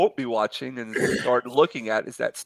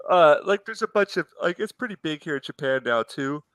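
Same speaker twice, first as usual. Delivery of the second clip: yawning; 4 semitones higher than usual. Real, not acted. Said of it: "Sorry, I'm yawning".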